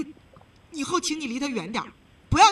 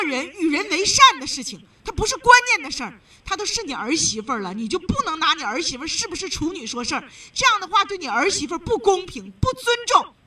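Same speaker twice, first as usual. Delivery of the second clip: building from firm to loud and high, faster; rising indignant lecture, getting louder; heated scolding; 3 semitones higher, 4 dB louder than usual. Real, not acted. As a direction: scold her harder and harder until it bursts out. Host scolding caller's prejudice.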